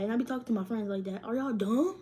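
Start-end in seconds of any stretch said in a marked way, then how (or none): 1.2-2.0 playful insult. Retold or imitated. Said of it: "I be talking to y'all like that".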